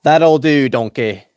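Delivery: loud gruff ogre voice; loud Shrek impression to a donkey. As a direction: bark it out like a swamp ogre. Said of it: "Can I do Shrek?".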